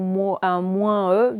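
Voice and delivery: moins E read out slowly as a wrong try. Shown as a demonstration. Teacher showing pupils how a wrong reading sounds. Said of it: "Est-ce qu'on dit".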